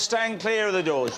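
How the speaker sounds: train station announcement. Pretend. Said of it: "this is my only speaking bit".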